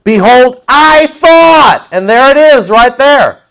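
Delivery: high, loud indignant outburst; angry Naaman. Retold or imitated. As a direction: bellow it like an offended general. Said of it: "Naaman gets mad".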